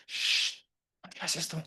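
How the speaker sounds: a hushed shh and a soft warning; shushing whisper. Retold or imitated. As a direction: silence him with a whisper. La gente silencia al ciego. (susurro para callarlo)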